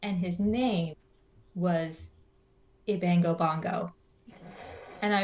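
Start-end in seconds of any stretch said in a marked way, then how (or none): 0.0-3.9 low, slow storytelling drawl; pastor's funny story. Retold or imitated. Pastor telling a joke to a kid in the car, low and slow. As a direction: lower and stretch it out for the punchline. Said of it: "And he was just like".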